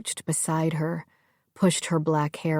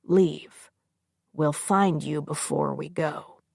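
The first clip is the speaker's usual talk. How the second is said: softly. Acted. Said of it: "he said to her softly".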